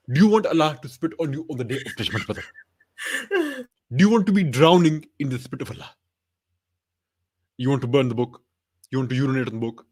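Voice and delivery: mock preacher's rhetorical questions; deliberate sermon questioning with long pauses; Zakir Naik. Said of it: "what would Zakir Naik say to Armin".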